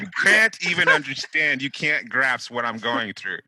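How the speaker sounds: loud, mock-tragic martyr rant; dramatic martyr. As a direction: wail it like a martyr. Mocking martyr's complaint.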